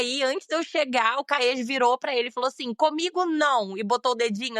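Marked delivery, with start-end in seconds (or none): 2.7-3.8 mild mock anger. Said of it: "assim, bem bravo".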